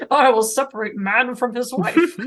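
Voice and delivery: quoting the demon through laughter; laughing mock voice. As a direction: mimic the line while laughing. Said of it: "I also just love".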